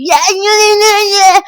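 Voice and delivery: high, shocked mock shriek; retold panicked yell from mom. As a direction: imitate a panicked mother yelling. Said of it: "mummy ऐसे चिल्ला रही है".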